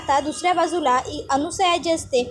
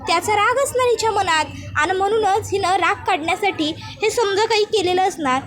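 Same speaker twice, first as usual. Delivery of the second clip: insinuating village woman, pitched higher; lightly voiced scheming accuser; 4 semitones higher than usual. Anusaya turning Krishna against her mother-in-law, insinuating. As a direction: lightly act a woman stirring up suspicion.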